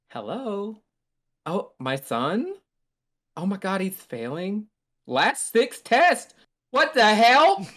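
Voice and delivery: high, rising disbelief into a yell; high mock-alarmed mother; shocked mom. Mom reacts on phone call.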